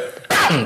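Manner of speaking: clearing the throat after choking; hard clear of the throat. Real, not acted. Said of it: "ich habe mich gerade verschluckt". (Räuspern nach dem Verschlucken)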